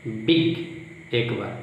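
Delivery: slow, each word said with care to count its syllables; slow, deliberate classroom demo of syllables. Shown as a demonstration. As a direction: draw each word out so the mouth shapes can be counted. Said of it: "मुंह कितना बार बन रहा है".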